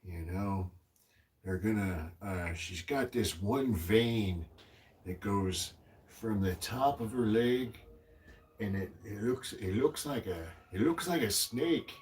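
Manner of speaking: put-on old man voice. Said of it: "the old man voice".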